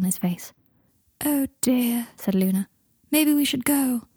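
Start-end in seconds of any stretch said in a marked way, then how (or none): 1.2-2.1 higher, lightly voiced girl character; voiced Luna. Luna voiced in narrated story. 3.1-4.1 high-pitched character voice for Luna; voiced Luna. Luna voiced in narrated story.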